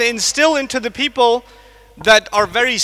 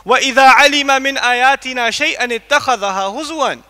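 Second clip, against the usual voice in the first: swift melodic Quranic recitation; fast chanted Arabic verse; 2 semitones higher, much faster than usual. Acted. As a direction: recite it in rapid tajweed flow.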